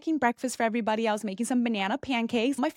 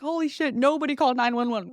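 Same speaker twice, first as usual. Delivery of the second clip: alarmed; 3 semitones higher than usual. Retold or imitated. Waking up, fearing ambulance bill.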